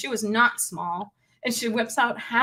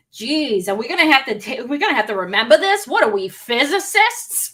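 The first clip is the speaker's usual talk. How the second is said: Boston woman; 3 semitones higher, 5 dB louder than usual. Retold or imitated. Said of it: "one of them goes".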